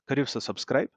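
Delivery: put-on light Kashmiri accent on the subject. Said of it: "that's like a typical Kashmiri accent that I gave".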